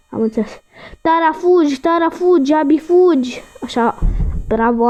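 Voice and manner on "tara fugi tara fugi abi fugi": 1 urging. Real, not acted. Urging game characters to run.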